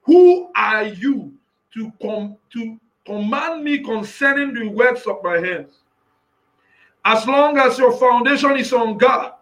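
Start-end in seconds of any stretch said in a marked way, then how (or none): 0.0-5.7 voicing Jehovah.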